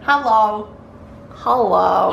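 funny voice. Pretend. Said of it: "Why, why, why are you talking like that?".

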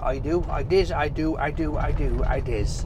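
put-on playful West Country pirate accent; pirate-like Cornish accent. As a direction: ham up a pirate's Cornish burr. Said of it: "I sound like a pirate".

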